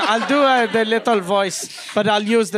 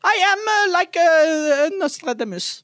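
put-on little child voice. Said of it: "I'll do the little voice".

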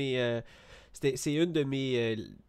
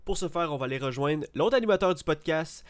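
grand, rolled-R announcer intro; hammy stage actor; 4 semitones higher than usual. Acted. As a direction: ham it up like a theatre host. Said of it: "on roule les airs à cette heure".

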